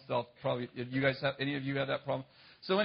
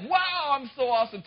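mock bragging; 9 semitones higher, 4 dB louder than usual.

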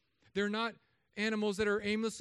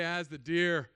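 deadpan punchline; 2 semitones lower, slower than usual. Shown as a demonstration. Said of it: "I'm gonna say".

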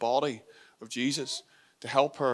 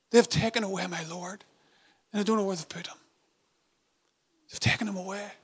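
pleading, higher and desperate; desperate grief; 7 semitones higher, faster than usual. Retold or imitated. Mary telling Peter the body is gone, desperate. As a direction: cry it out in disbelief. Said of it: "hear the grief in her tone".

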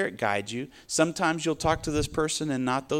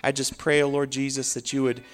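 earnest praying voice; preacher leading a heartfelt closing prayer. Real, not acted. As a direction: pray over the listeners.

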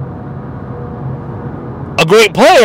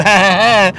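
put-on chummy chuckle; imitated laugh, played as a joke; mock laugh. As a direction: fake a brief buddy-buddy laugh. Acting out his claimed joking friendship.

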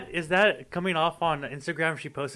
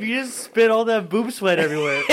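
laughing; 6 semitones higher, 6 dB louder than usual. Real, not acted. Friend spat water laughing.

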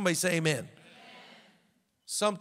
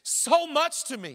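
pleading, rising higher; 4 semitones higher than usual. Retold or imitated. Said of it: "he said".

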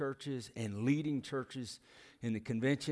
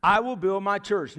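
proclaimed quote; 4 semitones higher, 6 dB louder than usual. Acted. Quoting Jesus in sermon.

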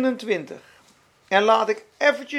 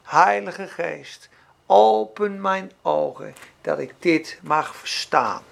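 slow, lower humble prayer; prayerful; 5 semitones lower, slower than usual. Retold or imitated. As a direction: pray it slowly and tenderly. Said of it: "dan zeg je".

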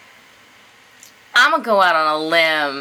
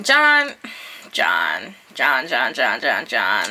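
singsong calling; 7 semitones lower, slower than usual. Acted. Calling the letter writer's name repeatedly.

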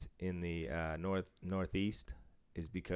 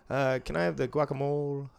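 higher, Spanish-accented guacamole ordering; 7 semitones higher than usual. Shown as a demonstration. Ordering at a restaurant, Spanish accent on guacamole. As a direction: say guacamole the Spanish way, a bit self-conscious. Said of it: "I still feel like a douche".

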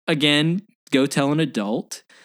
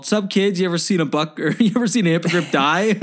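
creepy executioner; 6 semitones higher than usual. Retold or imitated. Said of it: "He's all".

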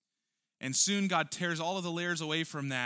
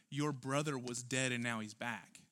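gentle father reminder; 3 semitones lower, 5 dB quieter than usual. Acted. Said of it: "He reminds his other son".

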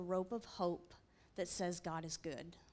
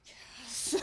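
eager yes; 4 semitones higher than usual. Retold or imitated. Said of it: "And I'm like".

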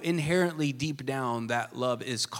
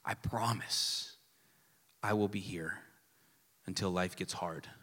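mock vow; 9 semitones lower, 11 dB quieter than usual. Pastor mocking a bad wedding vow, whispered. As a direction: whisper the hollow promise. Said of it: "the vows went something like this".

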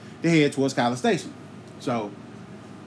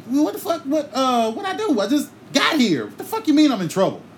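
confused protest; 6 semitones higher than usual. Retold or imitated. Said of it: "so I asked my sister".

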